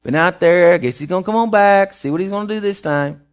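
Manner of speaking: a lightly voiced shrug, careless and offhand; mildly mock bored bystander; preacher mocking a father who doesn't care, offhand; mock indifference. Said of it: "a compassion like saying".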